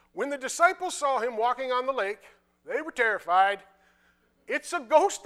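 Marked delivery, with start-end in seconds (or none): 4.5-5.2 raised, higher voice as if startled; mild fearful cry. Acted. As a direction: cry out with a touch of fear. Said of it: "cried out in fear".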